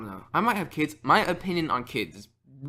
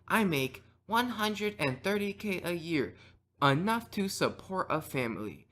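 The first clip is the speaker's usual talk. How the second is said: put-on robot boyfriend; 4 semitones higher, slower than usual. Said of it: "He's gonna start listing off facts".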